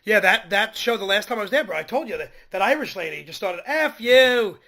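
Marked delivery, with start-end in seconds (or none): 3.7-4.6 screaming. Retold or imitated. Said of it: "just screaming".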